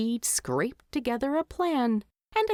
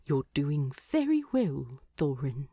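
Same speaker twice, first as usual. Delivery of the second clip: reassuring; 5 semitones lower than usual. Acted. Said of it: "as comforting as".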